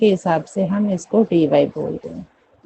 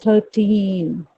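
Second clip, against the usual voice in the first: "थर्टीन" with a long, stressed "टीन"; teacher's model "थर्टीन", second syllable stressed; stress on TEEN; much slower than usual. Shown as a demonstration. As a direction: lean on the final "टीन" of "थर्टीन". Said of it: "ट पे stress दिया जाता है".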